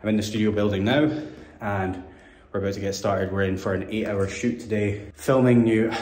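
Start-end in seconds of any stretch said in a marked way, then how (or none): 3.3-5.9 out of breath from the stairs; winded, catching breath. Real, not acted. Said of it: "sorry, I'm out of breath".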